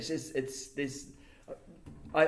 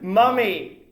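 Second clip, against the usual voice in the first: teasing mummy; 8 semitones higher, 10 dB louder than usual. Pretend. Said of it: "I'm just kidding".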